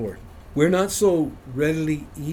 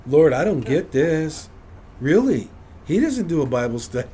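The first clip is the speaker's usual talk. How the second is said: mock upset complaint; 3 semitones higher, 5 dB louder than usual. Upset with God over the neighbors' power, louder mock complaint. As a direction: grumble it out loud, half joking. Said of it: "I was getting upset".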